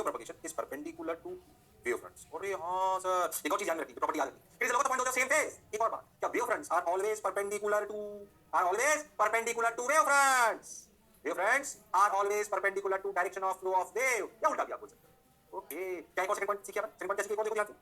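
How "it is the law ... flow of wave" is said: slow dictation. Shown as a demonstration. Dictating definitions to note down.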